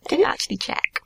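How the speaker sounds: hushed whisper. Real, not acted. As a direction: whisper so the mic misses it. Whispered aside during interview.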